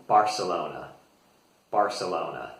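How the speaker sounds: "Barcelona" with an s sound, bar-suh-LOH-nuh; American "Barcelona", the c said as s. Shown as a demonstration. Teacher showing how most Americans say it, "Barcelona" with an s. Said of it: "the C like a S sound".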